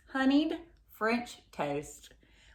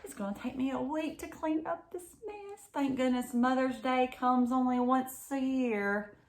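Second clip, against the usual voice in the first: Mama's thoughts; 4 semitones higher, 4 dB quieter than usual. Acted. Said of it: "thought Mama".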